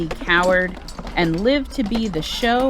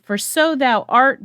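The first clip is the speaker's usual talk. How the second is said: higher and louder, a victorious greeting; triumphant hail; 4 semitones higher, 3 dB louder than usual. Acted. Macduff hailing Malcolm as king, triumphant call. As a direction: announce the new king with pride.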